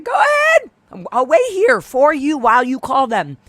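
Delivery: shouted challenge outside the restaurant; defiant shout. Retold or imitated. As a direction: dare her to call the police. Daring owner to call cops.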